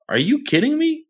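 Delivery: high disbelieving squeal; incredulous. Retold or imitated. Reacting to the comic's dialogue, incredulous high squeak. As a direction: pitch up in sheer disbelief. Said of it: "And I'm like".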